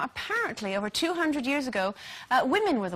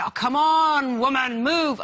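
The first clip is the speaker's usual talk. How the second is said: louder mock driver's snap at a slow car; imitating Steve's road rage; 3 semitones higher, 6 dB louder, slower than usual. Imitating her husband yelling at another driver, mock angry. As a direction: blurt it like an impatient builder behind the wheel. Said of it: "sometimes he would say".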